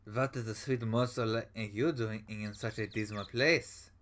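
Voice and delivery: put-on slow, smooth German-accented charm. Prosecutor sweet-talking a girl, slow German accent. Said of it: "he's more German".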